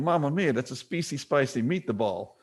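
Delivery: lightly imitated Italian accent; thick Italian accent. Man in the commercial repeating his line, light mock Italian accent. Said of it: "with a thick Italian accent".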